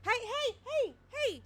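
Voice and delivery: high, calling "hey" repeatedly; playful call to chat. Real, not acted. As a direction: call chat back to order.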